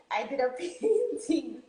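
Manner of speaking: slow breathy laughing words; giggling. Real, not acted. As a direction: giggle through the reveal. Giggling over painting.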